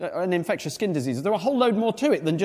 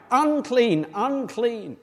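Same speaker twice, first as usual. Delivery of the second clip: calling out unclean; 4 semitones higher, much slower than usual. Acted. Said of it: "and shouting out".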